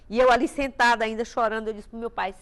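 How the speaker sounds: ordinary talk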